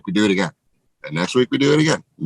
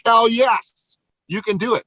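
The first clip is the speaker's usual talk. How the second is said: cheering; 12 semitones higher, slower than usual. Retold or imitated. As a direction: cheer them on like a hyped crowd. Team cheering on the goal.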